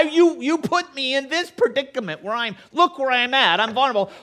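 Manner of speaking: high, loud defensive pleading; rising panic as he shifts the blame; pleading excuse. Retold or imitated. Saul's excuses voiced.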